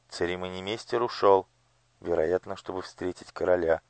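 ordinary delivery

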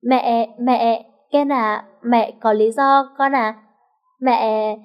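halting, dragged-out stammer. Acted. Mother caught out, stammering her excuse to her son. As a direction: stumble over every word, caught out. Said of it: "lắp ba lắp bắp trả lời".

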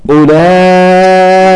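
"أولئك" chanted slowly with a long held vowel; recited madd. Shown as a demonstration. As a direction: stretch the madd before the hamza in "أولئك". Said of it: "كلمة". (مد متصل طويل في "أولئك")

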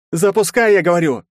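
loud, high-pitched angry command; insistent order. A narrator's reading. Herzen overrules the fat henchman's protest, insistent angry order. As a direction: order it forcefully, out of patience.

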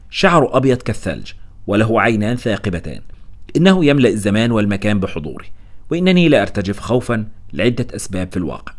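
usual speaking voice

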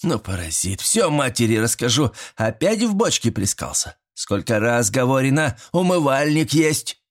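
mock-stern granny tirade; granny scolding. Grandmother scolds the boy for splashing in the barrel, mock-stern. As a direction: tell off the soaked grandson.

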